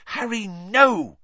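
high, drawn-out urgent cry; high-pitched alarmed protest. Acted. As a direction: cry out to stop someone. Hermione stops Harry grabbing cloak.

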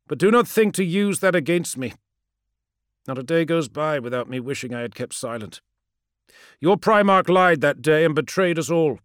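defiant, hurt soldier's reply; proud warrior voice. A narrator's reading. Promus speaks.

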